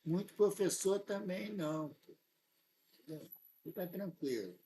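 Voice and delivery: hushed confiding aside; softly, as if sharing a secret; leaning in to whisper. Real, not acted. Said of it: "vou falar baixinho".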